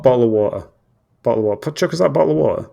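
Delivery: British "bottle of water"; British phrase demo. Shown as a demonstration. Drilling a phrase for a co-host, British accent. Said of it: "the normal one".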